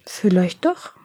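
gently hopeful, with a light smile; mild, kindly encouragement from an old woman; smiling old woman. A narrator's reading. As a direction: reassure her with a small smile. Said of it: "sagte die Alte lächelnd".

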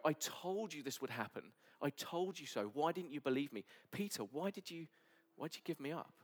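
hypothetical I-told-you-so, lightly scolding; accusing Jesus. Retold or imitated. Jesus rebuking the disciples who abandoned him, mildly reproachful. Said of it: "Jesus to walk into the room and go".

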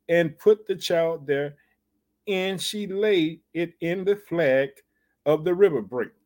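solemn verse reading; scripture reading. Acted. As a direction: read each phrase out with weight. Preacher reads the scripture aloud.

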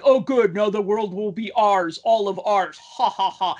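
lightly voiced cackling villain; hint of a gloating supervillain; mad villain voice. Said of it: "he has that crazy laugh".

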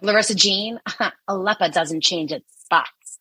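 imitating a Queens mom's accent; older mother with a heavy New York accent. Mom warning her daughter, heavy Queens accent. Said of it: "we have a very heavy accent".

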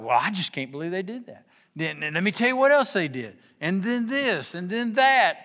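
building from a fret to a loud, high rant; worked-up rant. Retold or imitated. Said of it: "work yourself into a lather".

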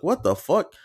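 high startled what the fuck; shocked outburst. Retold or imitated. Hearing the roommate moan: high shocked outburst. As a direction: blurt it out in disbelief.

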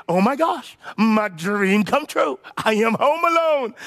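acted wide-eyed delight, stretched out; excited kid. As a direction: play a child whose wish just came true. Voices Kevin's delighted realisation.

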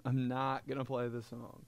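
quiet second take of the line. Shown as a demonstration. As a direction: drop it to an aside.

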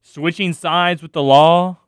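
slow, exaggerated recital of corny lines; mocking read. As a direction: drag out each line to show how clunky it is. Mocks the corny script lines.

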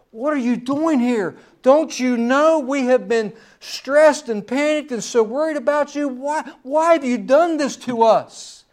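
a hammed-up anxious parent scolding her son; amplified worried mother. Preacher voicing Mary scolding Jesus in a mock-worried plea. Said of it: "this is my amplified version".

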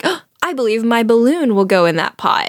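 mildly excited, gasped opening; a touch of eager discovery; Eeyore. Retold or imitated. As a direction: imitate someone suddenly hopeful, lightly. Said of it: "he gets really excited because he's like".

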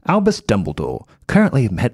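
put-on British reading voice; British accent. Reading Dumbledore's card aloud, British accent. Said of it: "I want to do this in a British accent".

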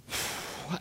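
soft, wordless exhale; imitated apprehensive sigh; nervous sigh. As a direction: let out a quiet, uneasy breath. Daughter's nervous last look back.

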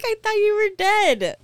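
high, loud imitation of crying; mock tearful wail. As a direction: wail it at him, hammed-up and half-laughing. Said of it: "And then I started crying".

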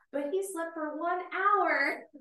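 high, loud, slow laughing-crying disbelief. Retold or imitated. Mom laughing about a classmate's nap. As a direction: squeal it out in disbelief.

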